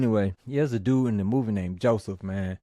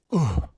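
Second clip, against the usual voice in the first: high, loud mock grunt; sudden punched-out "ugh"; imitated impact grunt; 4 semitones higher, 4 dB louder than usual. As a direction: grunt like a blow landing. Acting out the blow.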